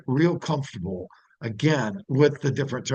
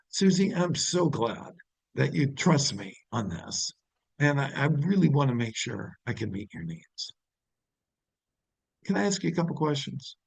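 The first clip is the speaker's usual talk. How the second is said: softer, gentle reassurance to a client; caring tone; 4 dB quieter than usual. Shown as a demonstration. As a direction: soothe her trust, then ask. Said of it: "completely different tone".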